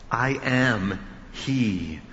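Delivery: slow, deliberate I AM HE, each word set apart; emphatic. Retold or imitated. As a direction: weigh out every word of I am he. Quotes the emphatic I am.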